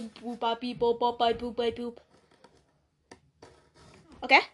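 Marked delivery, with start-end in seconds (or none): 0.0-2.0 imitated robot beeps. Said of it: "it just goes".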